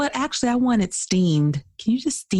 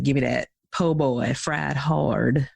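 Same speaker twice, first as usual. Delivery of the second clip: Southern counter order, "hard" drawn out; Southern drawl; 6 semitones lower, slower than usual. Shown as a demonstration. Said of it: "So we say fried hard".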